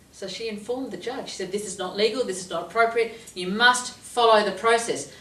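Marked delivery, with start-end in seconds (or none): 1.5-5.1 firm insistence. Retold or imitated. Client lecturing the judge.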